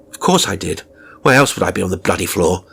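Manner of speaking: mild anger. Acted. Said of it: "why I was so angry with him".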